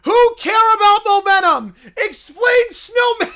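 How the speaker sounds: high, loud indignant bear shout; broken-English bear. Acted. Little Brown Bear protesting at the screen, high and loud. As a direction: protest like an upset toddler.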